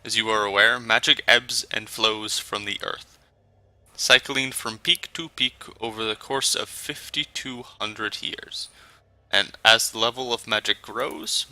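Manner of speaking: measured speech with a hint of a German accent; attempted German accent. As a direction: take your time over each word, lightly German. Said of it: "deep, melodious German accent".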